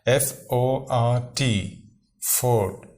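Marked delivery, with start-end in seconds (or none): 2.4-2.9 فورٹ said "fawt" with the r silent. Shown as a demonstration. Teacher showing students the fluent reading, clear. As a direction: drop the r in فورٹ as in fluent English. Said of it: "آر silent ہو جاتا ہے".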